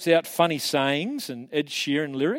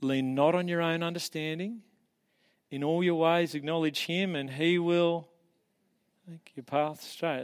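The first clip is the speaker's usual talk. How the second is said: gentle reassurance; 4 dB quieter than usual. Retold or imitated.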